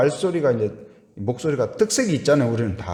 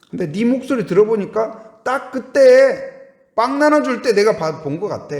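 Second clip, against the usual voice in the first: 1 excited accuser; 9 semitones higher, 5 dB louder than usual. Acted. Bystander accusing Peter.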